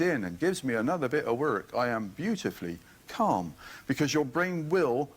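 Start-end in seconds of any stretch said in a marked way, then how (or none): 1.7-3.5 calm affirmation. Shown as a demonstration.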